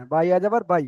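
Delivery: "বাই" said as one unheld glide; no elongation. Shown as a demonstration. Teacher confirming pronunciation to student, "বাই" left unstretched. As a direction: finish cleanly on "বাই", no stretch. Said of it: "এমন উচ্চারণ হবে".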